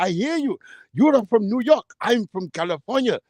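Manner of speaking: mock Arab-accented food vendor. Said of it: "He was an Arab too".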